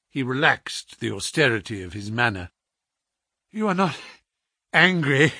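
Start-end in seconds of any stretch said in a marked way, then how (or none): 3.5-5.3 breathless sick man asking; gasping for breath. A narrator's reading. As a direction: gasp the words out. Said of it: "gasping for breath".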